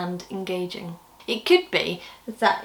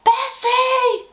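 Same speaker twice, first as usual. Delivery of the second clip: even higher, full loud call of the name; louder call; 5 dB louder than usual. Acted. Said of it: "A bit louder".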